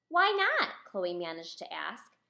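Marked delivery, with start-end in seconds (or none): 0.1-0.7 much higher, louder plea; hurt question. Acted. Chloe asks the boys why, high and hurt. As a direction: ask it small and hurt.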